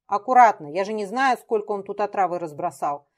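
loud sharp warning; warning shout. Acted. Дмитрий warns Лёлька about poison, shouting. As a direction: shout a warning to keep back. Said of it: "крикнул Дмитрий".

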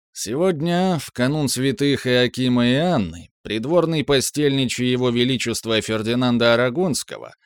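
creaky voice. Acted. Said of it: "скрипучим голосом зачитал".

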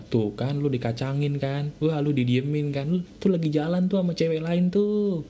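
a hint of a taunting devil on your shoulder, pitch jumping up and down; lightly voiced nagging devil, goading; devil's whisper. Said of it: "Pikiran setan akan ngomong apa?". (sedikit suara setan yang menghasut)

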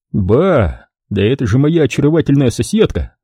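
mild mock delight; восхищённо; admiring exclamation. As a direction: greet her with feigned joy. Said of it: "восхищённо воскликнул я".

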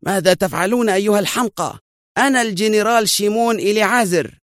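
high, indignant outburst; furious protest, pitched high; angry shout. A narrator's reading. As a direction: snap at the fools in outrage. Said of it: "صاح ذلك الرجل في غضب".

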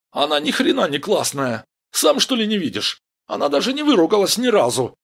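high, loud scornful protest; indignant shouting. Acted. Gang member denounces Vera as uncool, indignant shout. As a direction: argue hotly at the top of the voice. Парень возмущённо спорит.

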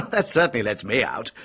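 a short laugh, then the line in an amused tone. Acted. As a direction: laugh off the suspicion lightly. Suspect laughs off the motive.

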